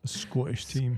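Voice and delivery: mock Scottish accent, laughing; imitating a Scottish accent. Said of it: "You sounded a bit Scottish".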